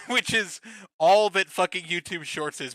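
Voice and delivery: ordinary delivery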